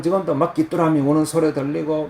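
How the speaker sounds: normal talking voice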